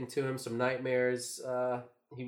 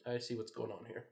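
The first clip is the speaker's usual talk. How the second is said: knowing dame voice; 10 dB quieter than usual. Retold or imitated. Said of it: "when she snapped into it".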